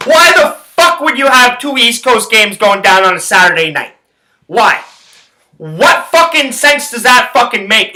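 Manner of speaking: exasperated, incredulous rant; real sports-fan outrage; furious. Real, not acted. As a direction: demand an answer, leaning hard on the words. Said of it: "I'm furious".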